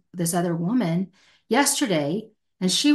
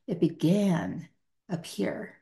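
whispered, much softer; hushed aside; 5 dB quieter, slower than usual. Real, not acted. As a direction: drop to a breathy whisper on the last words. Pointing to the head.

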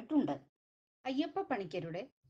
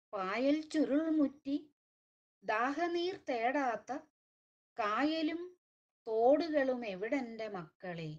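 measured, lilting recital of a lament poem; slow rhythmic poetry reading with falling line ends; poem recitation. Acted. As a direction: recite it like a mournful refrain, lingering on each "makkale". Poem recital after intro.

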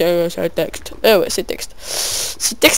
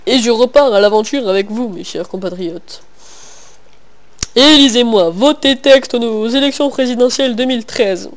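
mock politician speech. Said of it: "Non, je rigole".

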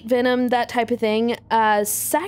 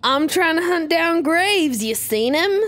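Southern drawl; 3 semitones higher than usual. Acted. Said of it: "he's Southern".

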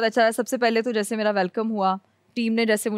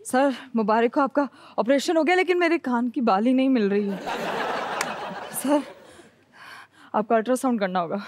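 nervous. Shown as a demonstration. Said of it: "full घबराते हुए".

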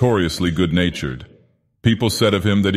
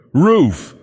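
rapturous cry; 9 semitones higher, 5 dB louder than usual. Acted. Liftman rapturous at sunlight.

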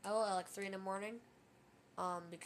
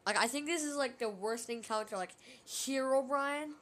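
excited; 2 semitones higher, 7 dB louder than usual. Real, not acted. Hyped after Herobrine appears.

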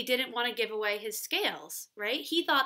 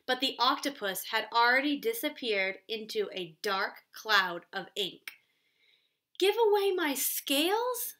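put-on expressive read-aloud for young kids; storybook reading. A narrator's reading. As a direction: read the story to children, a little animated. Teacher reads storybook aloud.

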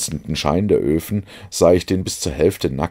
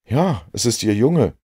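higher, louder excited call; 7 semitones higher, 4 dB louder than usual. A narrator's reading. Watson calls out to Holmes, excited and louder. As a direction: cry out spotting the boy. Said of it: "rief ich".

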